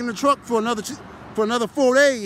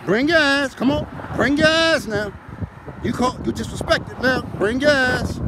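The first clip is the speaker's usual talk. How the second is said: street challenge. Retold or imitated. Calling out challenger to race.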